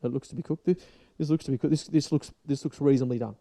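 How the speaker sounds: mock serious judge. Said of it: "he's like".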